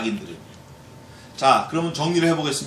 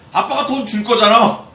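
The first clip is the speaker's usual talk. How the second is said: confident little son; 6 semitones higher, 5 dB louder than usual. Retold or imitated. Son answers confidently in story.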